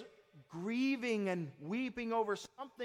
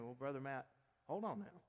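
worried listener. Retold or imitated. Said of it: "you may be thinking".

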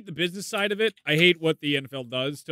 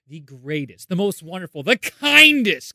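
mock grand introduction; 5 dB louder, slower than usual. Hammed-up praise of co-host.

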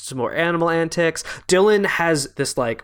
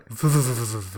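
tiger chuffing; 3 semitones lower, faster than usual. Retold or imitated. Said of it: "Scarjo goes like".

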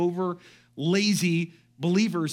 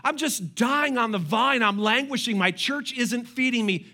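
mock whine; 3 semitones higher than usual. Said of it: "I've heard believers say like this".

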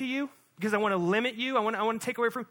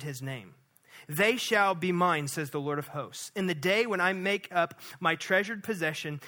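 measured, slowed public reading of the text; scripture reading. Acted. Pastor reading Malachi aloud to the standing church. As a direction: read it out as sacred word.

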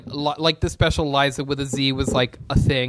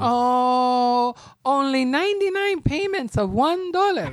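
infomercial voice; 9 semitones higher, slower than usual. Pretend. Mock TV ad pitch.

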